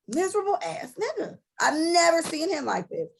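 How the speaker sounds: high, half-laughing half-crying disbelief; exasperated laugh with a catch of crying; laughing through tears. Real, not acted. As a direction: laugh it out while close to tears. Venting about friend, laughing and crying.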